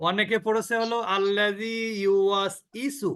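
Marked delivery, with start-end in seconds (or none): 1.1-3.1 ইউওয়াসইসু said slowly with a bare i sound; wrong reading. Shown as a demonstration. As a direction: show the other common mistake, slowly. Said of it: "এটাও কিন্তু না।".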